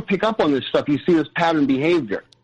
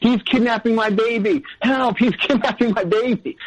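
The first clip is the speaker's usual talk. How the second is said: retold scream in a raised pitch; imitated screaming; 6 semitones higher than usual. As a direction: mimic her screaming for help without really yelling. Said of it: "starts screaming at the top of her lungs".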